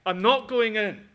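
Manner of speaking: loud, high, stamping-feet refusal; sulky child defiance. Acted. Elder brother to his father, sulky shouted refusal. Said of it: "stamping his feet before his father and saying".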